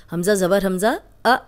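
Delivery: अ cut off with a sharp glottal catch; jerked hamza stop. Shown as a demonstration. Teacher showing students the jerked hamza अ. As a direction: snap the अ shut in the throat. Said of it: "झटके से पढ़ा जाएगा".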